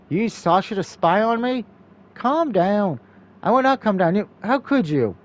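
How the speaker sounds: hurt, accusing outburst; angry confrontation. Acted. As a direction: demand answers from the one who betrayed you. Hazel confronts Tori.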